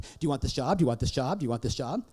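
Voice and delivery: quick, insistent questions on a loop; nagging repetition. Acted. Parent imitating his small child's relentless asking, nagging. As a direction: keep pestering without a breath.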